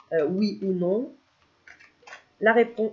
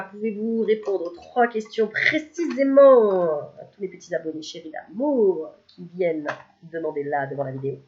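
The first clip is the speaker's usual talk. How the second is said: formal request to the cards; 2 semitones lower than usual. Acted. Formally asking the angel cards.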